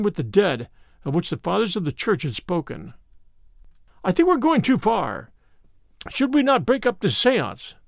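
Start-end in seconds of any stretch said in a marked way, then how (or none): 4.0-7.7 anxious cry. A narrator's reading. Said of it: "I cried".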